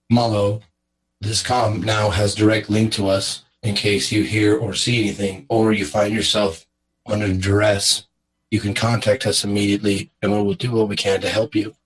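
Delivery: lightly acted, measured address to an ally; in-character briefing. Player tells Malo about the comm link, measured briefing. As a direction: deliver it evenly, in short deliberate phrases.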